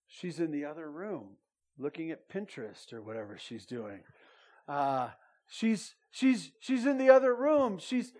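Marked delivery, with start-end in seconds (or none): 0.1-4.0 unvoiced conspiratorial whisper; hushed aside, no voice at all. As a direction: whisper it like mom might be overheard. Mom hiding from baby.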